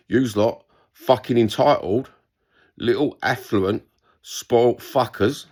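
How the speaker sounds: slow, dragged-out contempt; contemptuous insult. Real, not acted. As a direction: spit the words out slowly, with scorn. Insulting entitled fans.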